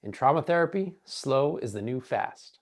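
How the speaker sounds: lightly imitated Southern twang, a mentor's fond advice. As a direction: put on a hint of a Southern accent to quote your mentor. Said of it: "would say in her Southern twang".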